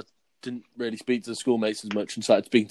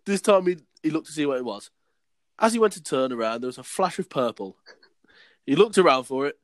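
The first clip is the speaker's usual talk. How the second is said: deliberate schoolboy-story reading; story read aloud. Acted. Reading his old school story to friends, read-aloud voice.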